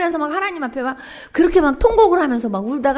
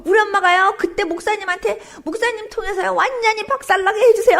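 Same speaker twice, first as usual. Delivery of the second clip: higher, urgent plea, rising toward the end; re-enacted pleading prayer; 5 semitones higher than usual. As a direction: beg God in a retold prayer. Acts out fasting prayer for mother.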